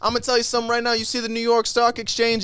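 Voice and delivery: high, loud, hyped-up conspiracy preacher; conspiracy guru voice. Pretend. Ranting to his podcast friends about Tartaria, high and loud. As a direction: sell the secret history like a street prophet, leaning on every word.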